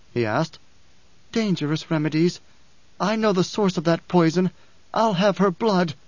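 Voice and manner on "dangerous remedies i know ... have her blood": higher, vengeful woman character; Chani, menacing. Acted. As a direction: threaten it, cold and set on revenge.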